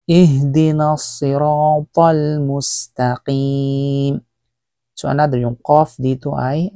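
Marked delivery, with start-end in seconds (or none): 0.1-4.2 slow, drawn-out tajweed chant; slow Quran recitation. Shown as a demonstration. Teacher recites the Fatiha slowly for students.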